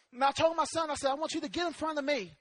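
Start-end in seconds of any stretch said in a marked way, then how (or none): 1.1-2.3 hushed, hurried instruction; retold fatherly instruction. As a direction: slip it in quietly to the boy. Retold calm instruction to son.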